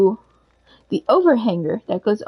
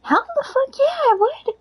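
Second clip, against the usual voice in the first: much higher, gleeful exclaim; gushing to the mom, far higher; emphatic yes. Retold or imitated. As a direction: burst out with an eager yes. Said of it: "And I'm like".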